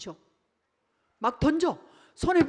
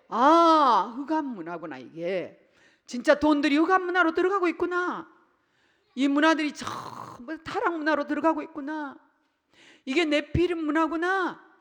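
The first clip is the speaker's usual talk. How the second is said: higher, louder aha; dawning realization; 4 semitones higher, 5 dB louder than usual. Pretend. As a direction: discover it with alarm. Imagined realization, voiced.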